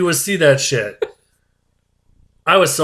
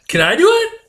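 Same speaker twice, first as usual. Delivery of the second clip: much higher, laughing and eager; eager laughing ask; 3 dB louder than usual. Retold or imitated. Eager friend begging the surgeon, high and laughing. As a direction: beg to take over, giggling. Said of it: "I'd be like".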